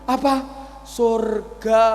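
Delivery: asking in astonished disbelief; surprised. Acted. Old man startled to hear he goes to heaven, astonished.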